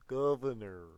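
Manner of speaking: loud, booming mock Arnold; Arnold Schwarzenegger. Teacher shouts Arnold's title, loud and hammed up. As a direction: bellow the title like an action hero. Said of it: "I'm trying to do an Arnold Schwarzenegger impression".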